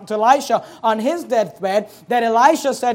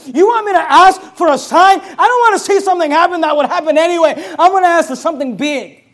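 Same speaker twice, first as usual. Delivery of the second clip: loud, higher, fast; fervent declaration; 6 semitones higher, 8 dB louder than usual. Acted. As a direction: sound fired up and fanatical. Zealous believer voiced, fervent.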